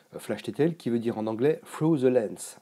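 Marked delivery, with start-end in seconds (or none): 1.6-2.6 Through the Lens said in a heavy French accent, mocking himself; French-accented English. Shown as a demonstration. Photo teacher joking about his English, French-accented. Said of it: "avec mon superbe accent anglais".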